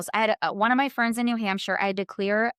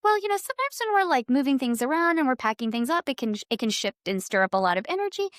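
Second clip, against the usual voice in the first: a soothing medium laying out the news; lightly voiced kindly psychic; quoting the psychic; 6 semitones higher than usual. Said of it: "And she goes".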